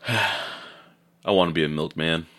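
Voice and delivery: slow, soft, dreamy longing; wistful sigh. Real, not acted. Cohost sighs about wanting the old milkman life, slow and wistful. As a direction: sigh it out like a daydream.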